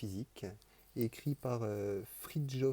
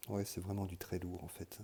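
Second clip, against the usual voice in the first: ordinary talk, nothing marked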